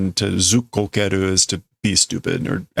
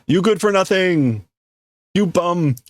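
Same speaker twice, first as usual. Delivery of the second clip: mild angry insult; 8 semitones higher than usual. Acted. Translating the workers' insults.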